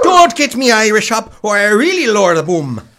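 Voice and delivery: loud Irish threat; angry threat. Acted. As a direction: warn him off, fired up. Threatening the beaten man.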